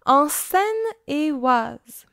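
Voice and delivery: Seine-et-Oise in separated pieces, pause after "en"; careful place-name pronunciation. Shown as a demonstration. Host repeating the region for puzzled co-host, careful, separated Seine-et-Oise. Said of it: "si je le prononce mal".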